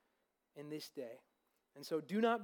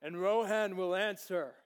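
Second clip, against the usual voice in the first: kingly answer; 4 semitones higher, 10 dB louder than usual. Acted. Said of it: "Theoden looks at him and he says".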